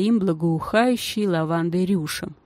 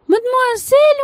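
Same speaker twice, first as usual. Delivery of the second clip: very high and louder, more urgent; lady shouting louder after the girl, very high; thin desperate shout; 7 dB louder than usual. A narrator's reading. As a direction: call again, louder and more frantic. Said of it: "тонкий отчаянный крик".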